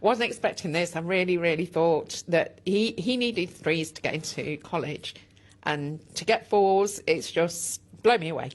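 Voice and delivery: emotional, slightly shaky voice; proud mother holding back tears; steady voice with shaky moments. Real, not acted. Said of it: "You are quite emotional".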